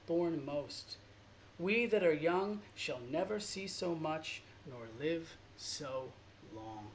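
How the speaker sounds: slow, measured dramatic reading, fading at the end; Shakespeare recitation. Acted. Quoting King Lear's closing lines, slow and grave. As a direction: let each line sink in slowly. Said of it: "like the end of King Lear".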